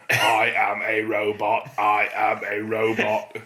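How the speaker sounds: slow, low robot monotone. Pretend. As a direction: speak like a robot, slow and level. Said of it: "I sound a bit like a robot".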